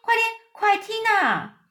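very high, urgent cry; eager chorus. A narrator's reading. The creatures all urge James to listen, excited. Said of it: "他们异口同声都说".

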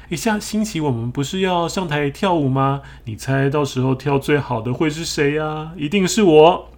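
high, loud, boastful; bragging. Acted. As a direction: crow loudly and high. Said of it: "炫耀了自己跳舞会跳得最好".

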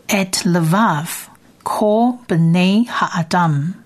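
et levav kol bnei ha'adam drawn out very slowly; slow Hebrew reading. Shown as a demonstration. Teacher models the second line for students, very slow. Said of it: "第二列的希伯来文是".

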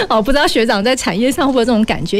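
quick words through a laugh. Real, not acted. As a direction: still chuckling as she asks. Laughs after "又爱又怕. (边笑边问)

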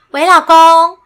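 a hint of a cooing wife calling her husband; sweet wife on the phone. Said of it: "他有点像是". (模仿朋友给老公打电话的甜腻语气)

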